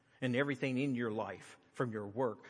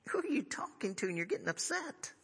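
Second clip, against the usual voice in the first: hushed, irritated aside under the breath; a retold grumble, fully whispered; exasperated whisper; 14 semitones higher than usual. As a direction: whisper it like muttering to yourself in disbelief.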